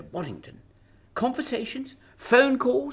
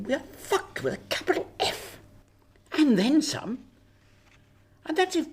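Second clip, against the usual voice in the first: panicked; 6 semitones higher than usual. Acted. PM panics over leak.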